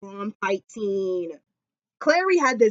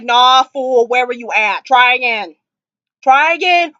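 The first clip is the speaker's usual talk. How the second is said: sassy scolding; 2 semitones higher, 6 dB louder than usual. Retold or imitated. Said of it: "she was like".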